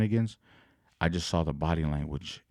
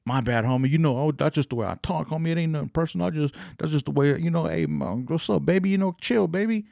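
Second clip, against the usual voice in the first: mock casual host voice; 9 semitones higher than usual. Host mocked as casual, dismissive.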